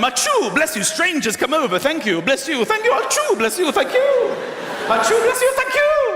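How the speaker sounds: mock sneeze exchange. Sneeze and bless-you exchange acted.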